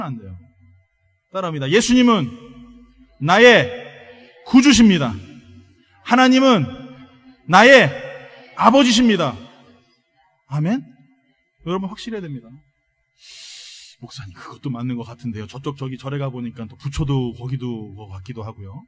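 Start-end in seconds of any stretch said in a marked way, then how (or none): 1.7-9.4 loud, punched phrases for repeating; forceful call for them to echo; leading a declaration. Shown as a demonstration. Leads congregation in repeat-after-me declaration. 14.0-18.8 lightly voiced unsure churchgoer, low and subdued; a hint of a hesitant doubter; wavering believer. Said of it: "긴가민가 하거든요".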